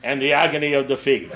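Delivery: comic letdown after the big build-up; mock announcer winding down; TV sports announcer, deflated. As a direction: drop from triumph to defeat. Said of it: "So he'd go".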